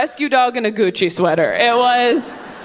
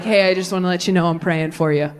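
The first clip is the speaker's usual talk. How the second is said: lower, sweet sanctimonious tone; syrupy concern, pitched down; pious churchgoer; 5 semitones lower than usual. Retold or imitated. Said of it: "They're like".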